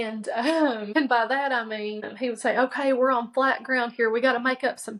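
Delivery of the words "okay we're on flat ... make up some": savage cross-country coach. Retold or imitated. Brother coaching his tired sister on flat ground, a mild mock coach push. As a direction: mildly imitate a coach driving a runner on. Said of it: "he went savage cross-country coach on me".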